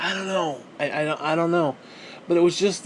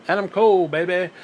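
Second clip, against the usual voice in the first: lightly imitating the wrestler's catchphrase; Adam Cole catchphrase; 2 semitones higher than usual. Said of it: "he does this".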